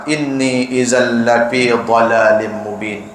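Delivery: slow, measured Arabic recitation; Quranic recitation. Acted. Preacher recites the verse to his listeners, slow chant. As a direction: chant the verse slowly and evenly.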